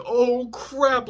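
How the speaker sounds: scared. Retold or imitated. Scared by cop's lethal threat.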